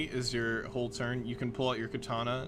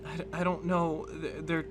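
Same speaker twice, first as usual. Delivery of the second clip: distressed confession; 4 semitones higher than usual. Acted. Sarah distressed by voices in head.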